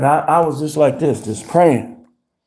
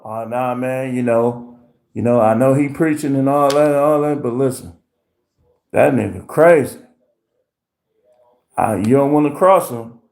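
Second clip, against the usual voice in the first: lower, hushed warning; 4 semitones lower than usual. Retold or imitated. Friends warning others about the preacher, low and hushed. Voicing people who know him.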